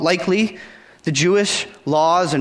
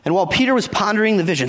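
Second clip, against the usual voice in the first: rushed reading; 2 semitones higher, faster than usual. Shown as a demonstration. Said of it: "we see in verse nineteen".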